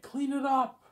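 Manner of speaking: high, loud shrill-pitched scolding; imitating an angry teacher's screech; mock teacher yelling. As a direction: shriek it like the furious teacher. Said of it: "She's like".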